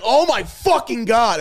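high, loud, drawn-out exasperation; hammed-up freak-out, words stretched slowly; mock panicked outburst. Stoned man overwhelmed by her laughing, mock panic.

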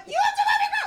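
laughing, very high and loud shrieking witch. Retold or imitated. Retelling the neighbor's order, a shrieking witch voice. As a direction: screech the order like a movie witch. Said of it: "The fucking witch".

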